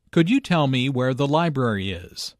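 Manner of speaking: "library" carries the main stress. Shown as a demonstration. Teacher repeats the polite question, stress on "library". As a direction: hit "library", the key information. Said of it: "Notice that library is stressed here".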